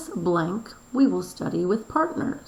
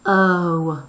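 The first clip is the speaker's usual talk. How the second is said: moaning; 8 dB louder than usual. Shown as a demonstration. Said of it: "moaned Ivan".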